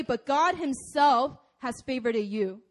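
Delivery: "God himself" leaned on firmly; stress on GOD HIMSELF. Shown as a demonstration. Preacher insisting not anybody but God, stressing "God himself". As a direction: press on "God" and "himself", then ease off. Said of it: "you emphasize different words in a sentence".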